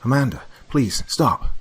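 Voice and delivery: husband chasing wife, yelling; pleading yell. A narrator's reading. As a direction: yell for her to stop. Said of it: "I yelled at her".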